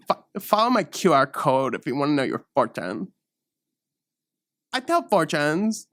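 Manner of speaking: hushed whispered plug; whispered pitch. Acted. Teen fortune teller whispering her QR code plug. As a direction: whisper it like a secret deal.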